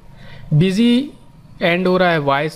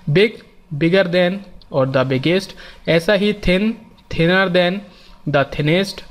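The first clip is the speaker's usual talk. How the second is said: very slow, each form spelled out; slow teaching demo; much slower than usual. Shown as a demonstration. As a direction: say every form slowly for students to copy. Teacher spells out example forms. (उदाहरण बहुत धीरे-धीरे बोलना)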